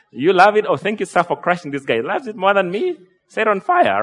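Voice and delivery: a hint of a worked-up wife, voice lifted; imagined wife. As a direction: play-act an indignant wife, lightly. Acts out the imagined angry wife.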